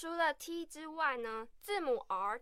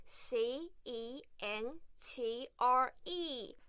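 slow spelling-out; much slower than usual. Shown as a demonstration. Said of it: "英式英文的拼法会变成".

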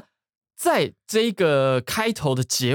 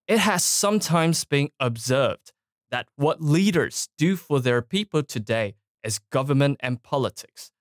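speech excerpt read-aloud. Acted. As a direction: read the quotation out deliberately, phrase by phrase. (朗读演说选段，放慢、逐句分明)

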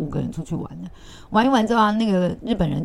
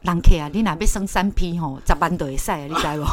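Taiwanese Hokkien; 4 dB louder than usual. Retold or imitated. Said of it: "我还跟客人讲说".

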